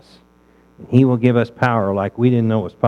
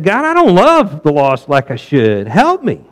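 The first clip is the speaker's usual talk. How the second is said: earnest prayer. Retold or imitated. Preacher retelling his own prayer to God, earnest plea. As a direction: cry out to God honestly.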